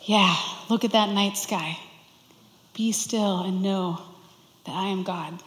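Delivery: gentle voice of God. Pretend. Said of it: "what if God's voice sounds like this?".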